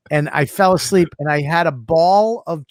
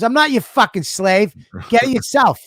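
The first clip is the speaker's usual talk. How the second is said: mock angry refusal; 6 semitones higher than usual. Voicing Nick's rude refusal.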